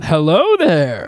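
slow, loud Obi-Wan greeting; Obi-Wan impression. Pitching the puppet's greeting to the writers, slow Obi-Wan hello. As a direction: greet like the Jedi master, drawn out. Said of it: "do an Obi-Wan".

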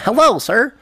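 high, prim white-guy voice; pinched polite customer voice. Shown as a demonstration. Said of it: "give you an idea of one".

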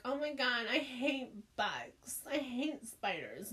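lightly imitating the friend, slow and drawn out; a mild mock of the friend's whiny complaint; copying her friend. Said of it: "Why does it sound like me?".

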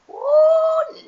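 very high, loud ooh; surprised. Real, not acted. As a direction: squeal the ooh in shock. Reacting to rude act.

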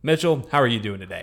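loud halftime-show host, proclaiming; put-on announcer accent. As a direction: announce it big like a sports show opener. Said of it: "You did an accent".

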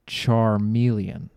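slow, drawn-out Charmeleon; slow careful naming. Shown as a demonstration. Naming the Pokémon for the crowd, slow and drawn out. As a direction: spell out Charmeleon slowly. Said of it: "Charmander, Charmeleon".

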